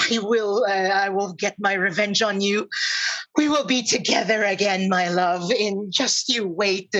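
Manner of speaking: angry troll. Acted. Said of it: "her face full of anger".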